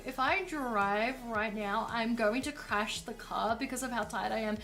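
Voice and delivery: whiny tired guilt trip. Retold or imitated. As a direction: drag every word out, guilt-tripping. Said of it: "Gex comes in and goes".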